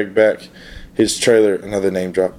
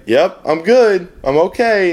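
reassuring; 8 semitones higher, slower than usual. Retold or imitated. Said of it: "It's like".

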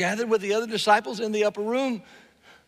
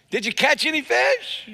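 raised, high call across the water; stranger calling out; 7 semitones higher, 5 dB louder than usual. Acted. Stranger on shore yelling to fishermen, raised call. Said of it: "he yells out at him".

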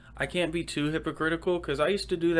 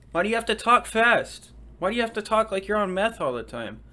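high, louder mocking complaint; mock scolding; 7 semitones higher, 5 dB louder than usual. Heckler mocks his fast talk, high and nagging. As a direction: nag him in a put-on high voice.

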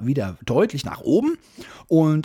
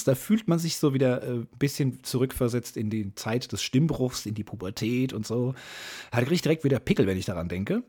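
hoarse, raspy voice; rough, strained hoarse voice; Reibeisenstimme. Real, not acted. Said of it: "ich hab so ein bisschen Reibeisenstimme". (heisere Reibeisenstimme wie ein alter Säufer)

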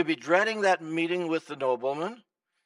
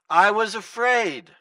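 loud, slow frightened plea; afraid servant; 6 semitones higher, 9 dB louder, slower than usual. Acted. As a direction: plead your fear to the master. Servant pleads before the master.

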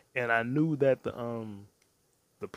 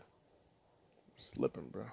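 slow breathy whisper, stretched out; whispered drawl; 6 semitones lower, 11 dB quieter, much slower than usual. Acted. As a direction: breathe it out slowly like a secret. Drawn-out whispered repeat.

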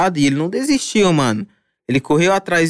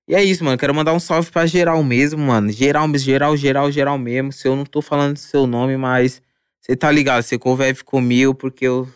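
a little tipsy, loose and rambling. Real, not acted. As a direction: talk like you've had a few drinks. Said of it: "eu tô bêbado já".

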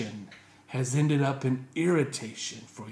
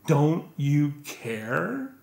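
mock accusing; much slower than usual. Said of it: "She actually asked Jesus".

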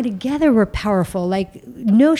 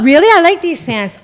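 laughing retort; 9 semitones higher, 10 dB louder than usual. Retold or imitated.

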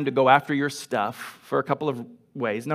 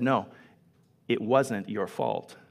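gentle insistence; 5 semitones lower, 5 dB quieter than usual. Retold or imitated. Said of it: "And Williams said".

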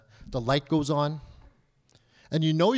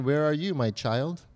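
God wondering; 2 semitones lower than usual. Acted. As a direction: gently turn the question back, lightly voicing God. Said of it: "God might be wondering".

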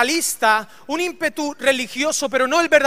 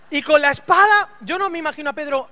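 normal talking voice

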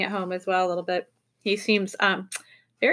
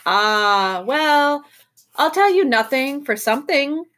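solemn; 6 semitones higher, 4 dB louder, slower than usual. A narrator's reading. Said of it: "said the oink solemnly".

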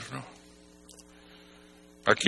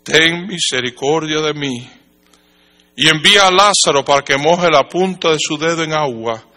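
calling out; 3 semitones higher, 4 dB louder than usual. Acted. Rich man begging Abraham for mercy, calling out. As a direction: call out to Abraham with mild urgency. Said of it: "dando voces".

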